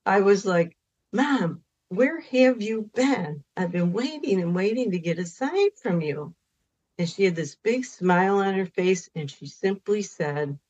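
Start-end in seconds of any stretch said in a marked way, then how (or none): 1.1-6.3 mild scolding. Retold or imitated. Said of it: "was to scold her".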